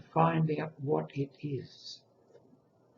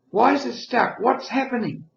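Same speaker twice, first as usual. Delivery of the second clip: worried nurse; 10 semitones higher, 7 dB louder than usual. Retold or imitated. Nurse questioning in retold story.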